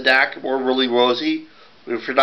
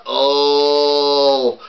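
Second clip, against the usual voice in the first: moan. Acted. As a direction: groan it out. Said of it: "he let a moan".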